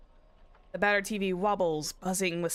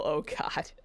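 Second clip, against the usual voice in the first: whisper; 4 semitones lower than usual. Real, not acted. Embarrassed after butchered accent.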